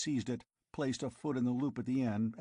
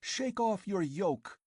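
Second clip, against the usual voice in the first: high, slow, pressing command; girl goading him to revolt; fierce urging; 8 semitones higher, slower than usual. A narrator's reading. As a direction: drive every word home.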